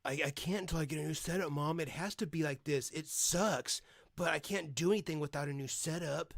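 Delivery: quick, pleading mock of the son; lightly voiced guilt trip to mom; mocking whiny son. Streamer imitates son pleading with his mother, fast mock whine. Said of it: "That's him trying to guilt her".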